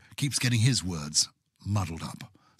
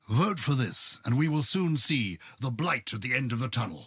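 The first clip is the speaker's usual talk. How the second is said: raised speech-making voice; rousing speech; 3 semitones higher than usual. Retold or imitated. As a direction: orate it to the House. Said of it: "my speech ended by saying".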